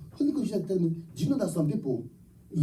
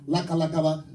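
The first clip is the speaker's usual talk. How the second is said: mock tongues. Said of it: "learned how to speak Lakalabaka".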